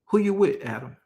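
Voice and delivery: street-talk God. Acted. God asks Adam who he's with, casual street talk. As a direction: ask it like a buddy checking up. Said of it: "what he was really saying".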